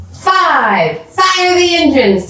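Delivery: high, slow rocket command. A narrator's reading. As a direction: call it out like mission control. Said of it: "Tommy commanded once more".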